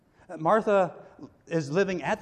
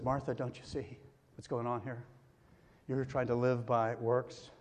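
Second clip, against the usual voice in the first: gentle Jesus; 3 semitones lower, 3 dB quieter than usual. Acted. Preacher voices Jesus to Martha.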